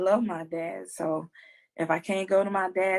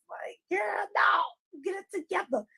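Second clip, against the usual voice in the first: self scolding; 12 semitones higher than usual. Retold or imitated. Scolding herself in self-talk.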